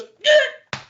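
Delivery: very high strangled yelp; squeaked, choked "gah"; startled pirate gasp. Acted. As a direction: yelp like an old man overcome with shock. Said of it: "you see he goes".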